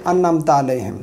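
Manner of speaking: quick "अनअमत अलैहिम" without the ayn; unchanted Urdu-style "अनअमत अलैहिम"; common mistake. Shown as a demonstration. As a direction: run "अनअमत" together as "annamta". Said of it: "गलती कर जाते हैं".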